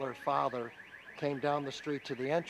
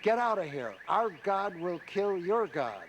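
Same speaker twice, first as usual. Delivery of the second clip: raised, slowing mock yell; retold scream; 4 semitones higher, 4 dB louder than usual. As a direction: re-enact an angry settler's shout, louder and higher. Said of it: "he screamed at me and said".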